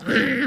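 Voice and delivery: closed-mouth huffy "mmm"; mock angry grunt. Imitating a wife angry at home, huffy grunt. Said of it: "뭐 화나 있어".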